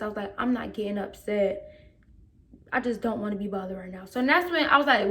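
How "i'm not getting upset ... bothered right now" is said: soft, restrained denial; calm. Retold or imitated. Student to coach asking why she's upset, calm. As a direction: keep it low-key and composed. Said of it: "I was talking in my calmest voice".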